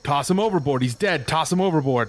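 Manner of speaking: mock yell, urgent but contained; acted yell. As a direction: play a crewman yelling a grim order. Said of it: "he yells to you".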